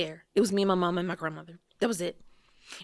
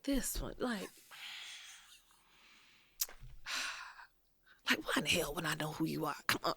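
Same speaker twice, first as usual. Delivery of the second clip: mock annoyed; 3 semitones lower, 13 dB quieter than usual. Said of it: "he rolled his eyes like".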